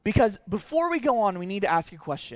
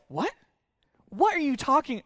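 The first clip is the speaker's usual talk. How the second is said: baffled what; 7 semitones higher than usual. Retold or imitated. Jerusalem crowd baffled by Magi.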